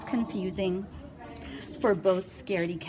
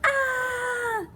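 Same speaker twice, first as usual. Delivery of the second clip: loud high scared yell; 4 dB louder than usual. Acted. Sam yelling in fright at the monster. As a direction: shriek in fright. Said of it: "yelled Carrie".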